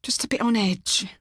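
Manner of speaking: hushed, muffled whisper; barely getting the words out; smothered voice. A narrator's reading. Millie to Forbes at lunch, smothered whisper. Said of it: "said Millie in a smothered voice".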